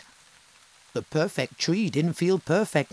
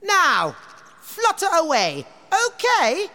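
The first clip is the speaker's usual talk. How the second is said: higher, louder haughty tree voice; vain tree; 6 dB louder than usual. Acted. The tree refusing animals, haughty and high. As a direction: sniff it out haughtily. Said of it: "said the tree".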